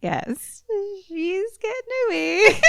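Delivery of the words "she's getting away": high leprechaun voice through laughter. Shown as a demonstration. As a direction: try the leprechaun voice while laughing. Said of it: "I can't even do it if I try".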